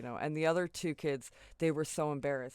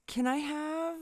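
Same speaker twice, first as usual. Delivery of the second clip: sheepish; 11 semitones higher, 4 dB louder, slower than usual. Retold or imitated. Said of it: "all sheepishly".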